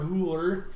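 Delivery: "whore" as two syllables, "hoo-er"; Charles Dance impression. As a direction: imitate "whore" with an oo glide. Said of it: "Charles Dance saying the word".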